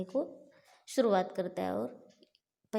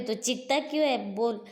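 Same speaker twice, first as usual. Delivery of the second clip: mocking yell; 2 semitones higher, 5 dB louder than usual. Bhima mocks the screaming demon.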